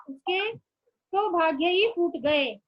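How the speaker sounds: गए said slowly and carefully as the plural, word by word; slow correct form. Shown as a demonstration. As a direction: spell out फूट गए at a slow dictation pace. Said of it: "ये भी बहुवचन में आएगा". (धीरे-धीरे, 'फूट गए' पर ज़ोर देकर)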